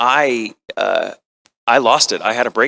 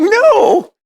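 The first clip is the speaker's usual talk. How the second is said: emphatic no; 7 dB louder than usual. Retold or imitated. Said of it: "I'm like".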